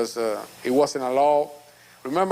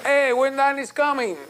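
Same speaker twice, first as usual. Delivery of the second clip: lightly voiced child's question, pitched up; quoting little girl; 10 semitones higher than usual. Father lightly voicing his daughter asking about Danny. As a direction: play his daughter asking, a touch higher. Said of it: "She asked me about you".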